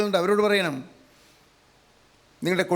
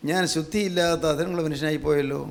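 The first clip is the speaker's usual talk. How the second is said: Isaiah's lament; 4 semitones lower than usual. Acted. Isaiah laments his unclean lips.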